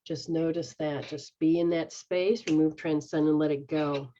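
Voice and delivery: guided meditation. Acted. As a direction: lead them gently into release. Guided healing session.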